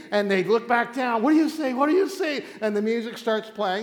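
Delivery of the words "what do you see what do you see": higher, louder repeated demand; urgent acted questioning. King presses the medium as they look, urgent and raised. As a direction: press the question, pitched up and loud.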